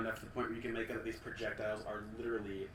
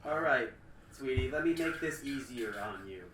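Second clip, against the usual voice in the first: booming villain woman; 2 semitones higher, 4 dB louder than usual. Acted. Villain calls out.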